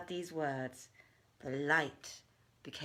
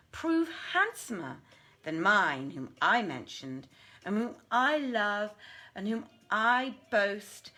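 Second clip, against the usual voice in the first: raised, lively voice of a haughty jinniya; jinniya's proud challenge; 2 semitones higher than usual. Acted. Maymunah wagers with the Ifrit, proudly. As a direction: boast of your beloved with proud confidence.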